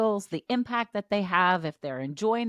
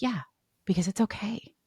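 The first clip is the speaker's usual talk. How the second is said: reassuring; 4 semitones higher than usual. Retold or imitated. Reassuring voiced client.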